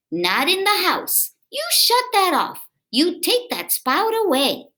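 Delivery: high, stern scolding mom voice; scolding mother. Acted. Mother ordering her son to shut off the spout, high and stern. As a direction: play the mother forbidding it. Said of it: "what she would say".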